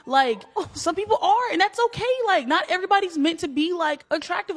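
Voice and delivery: high giggly voice through laughter; giggling confession of a mean opinion; laughing while talking. Real, not acted. Laughing while giving hot take.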